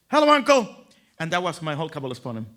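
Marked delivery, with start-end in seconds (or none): 0.1-0.7 put-on high, louder kid hello; child's voice. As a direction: voice a reluctant child.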